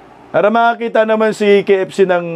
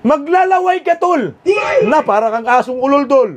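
much higher, gleeful teasing; promising a friend he'll drool, much higher; excited teasing; 5 semitones higher than usual. Real, not acted. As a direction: tease him with glee. Raving about pretty women.

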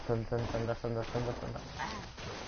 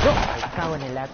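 raging gamer; 2 semitones higher, 5 dB louder than usual. Real, not acted. Dies in the game.

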